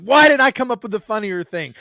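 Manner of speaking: mildly hammed-up frustration; mock indignation. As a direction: play up being annoyed at yourself. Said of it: "I'm always mad".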